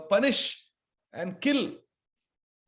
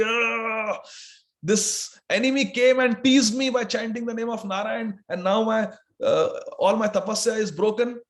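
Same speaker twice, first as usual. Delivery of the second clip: angry; 4 semitones higher than usual. Acted. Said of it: "Hiranyakashipu was so angry".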